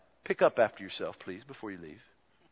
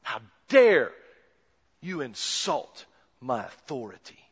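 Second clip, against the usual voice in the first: louder, stern How dare; indignant rebuke; 4 dB louder than usual. Acted. Jesus rebuking the doubting scribes, indignant.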